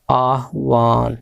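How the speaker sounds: आह्वान said slowly, ह before व; careful आह्वान for the class; slow demo. Shown as a demonstration. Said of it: "लेकिन ये होना चाहिए ऐसे".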